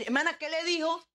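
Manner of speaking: a hint of an inquisitive church member; curious listener. Imita la pregunta de un oyente. (pregunta curiosa levemente actuada, más aguda)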